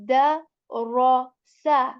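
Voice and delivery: "da, ro, sa" with light "da", loud and slow syllables; light dal sound. Shown as a demonstration. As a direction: spell out "da, ro, sa" syllable by syllable. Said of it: "The example for the first alphabet is".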